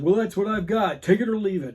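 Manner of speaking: retold take-it-or-leave-it snap; brusque retort. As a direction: imitate a curt, fed-up store clerk. Clerk yanks record back, retold.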